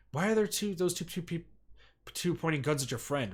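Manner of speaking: stumbling over the words in shock; a father alarmed at gunmen on the monitor; shaking voice. A narrator's reading. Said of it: "Osawa's voice was shaking".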